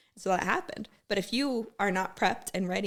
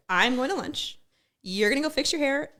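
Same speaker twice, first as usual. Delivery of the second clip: higher and louder, stern command; angry order; 6 semitones higher, 5 dB louder than usual. Retold or imitated. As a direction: scold her like a mad sergeant. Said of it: "I was so mad".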